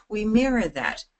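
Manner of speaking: lifted, livelier delivery; high energy. Shown as a demonstration. Coach showing how to match lively talkers, lifted and energetic. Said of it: "talk high energy".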